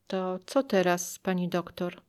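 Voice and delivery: a quiet, sad plea. Retold or imitated. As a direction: ask it sadly and softly. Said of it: "zapytałam smutnym głosem".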